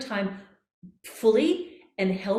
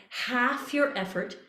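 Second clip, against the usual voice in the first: slow and relaxed; 3 semitones higher, slower than usual. Shown as a demonstration. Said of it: "half the effort".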